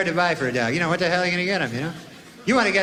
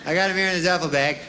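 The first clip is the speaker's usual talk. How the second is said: reporting to the devil; 3 semitones higher than usual. Acted. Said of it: "you go".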